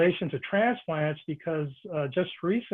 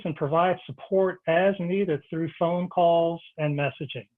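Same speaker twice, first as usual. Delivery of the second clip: measured read-aloud presenter delivery; formal programme introduction, read from a script; scripted host introduction. Real, not acted. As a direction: read the prepared announcement in clear, paused phrases. Host reads prepared introduction.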